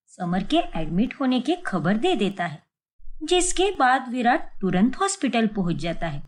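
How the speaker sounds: even storyteller narration; story narration. A narrator's reading. Narrator telling a family story, calm storytelling voice. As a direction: tell the tale to the listener.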